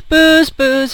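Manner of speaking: loud call of the firemen; crying out. Acted. Firemen banging on the door, calling out. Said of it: "the firemen cried".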